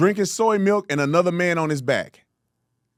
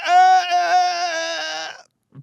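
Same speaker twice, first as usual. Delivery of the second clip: 1 stunned stammer; 10 semitones higher, 4 dB louder, much slower than usual. Real, not acted. Streamer stammers in disbelief at clip.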